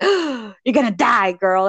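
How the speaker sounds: mock dire warning. Housekeeper warning pregnant Bella, mock doom. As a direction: draw out the warning in imitation. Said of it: "she was like".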